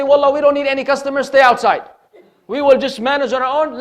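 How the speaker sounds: mildly hammed-up arrogant owner; mock restaurant owner. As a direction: scoff like an owner who needs no one.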